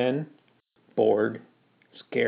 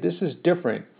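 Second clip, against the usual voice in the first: pleading; 4 semitones higher, 4 dB quieter than usual. Acted. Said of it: "I pleaded".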